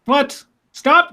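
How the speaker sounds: mock outrage. Real, not acted. Host announces yet another birthday.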